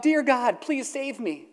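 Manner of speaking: high, pleading cry for help; mildly voiced plea to heaven; desperate cry. Atheist under the bear begging God, high and pleading. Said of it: "the atheist cried out".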